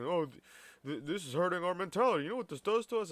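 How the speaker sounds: stammering high mock whine rising to a squeak; mocking whiny complainer. Mocking the complaining customer's stammering, rising whine. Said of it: "And fucking".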